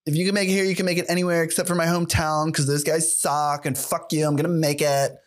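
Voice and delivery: lightly put-on New Yorker of no clear accent; mildly mocking self-important city transplant; a hint of a boastful New York transplant; New York turd. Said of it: "It's just that turd. Just like".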